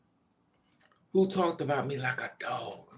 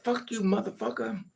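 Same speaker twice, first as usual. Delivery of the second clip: aunt cursing; 6 semitones higher than usual. Retold or imitated. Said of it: "She's like".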